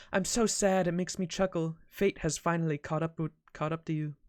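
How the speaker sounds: a hint of a mournful, peaceful knight; peaceful Tristan voice. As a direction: play the sorrowful archer, calm and a little hushed. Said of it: "I gotta use my peaceful voice when I talk as Tristan".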